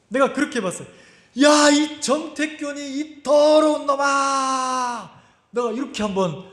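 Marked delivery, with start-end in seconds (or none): 1.4-5.1 high, drawn-out yell; shouting at himself. Retold or imitated. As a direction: yell out a long self-rebuke, stretching the last words. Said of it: "예배당에서 소리를 내가지고". (자신을 향해 길게 외치는 고함)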